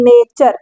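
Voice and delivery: "नेचर" with ch for T and "ar" for U-R-E; teacher's firm demo of "नेचर"; "ture" read as "char". Shown as a demonstration. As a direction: say "नेचर" ending in a short "char". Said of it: "अर करके पढ़ा जा रहा है".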